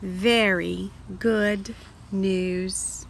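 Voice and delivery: slow, low, savoring very; slow and satisfied. Shown as a demonstration. Teacher reading to children, drawn-out pleasure. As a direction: stretch it out contentedly.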